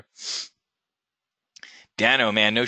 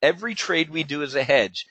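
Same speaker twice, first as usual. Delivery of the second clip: measured repeat for emphasis; slow repeat. Shown as a demonstration. Trader repeats his hedging rule to folks, slow repeat. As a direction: repeat it deliberately for the listeners. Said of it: "Let me say that again slowly".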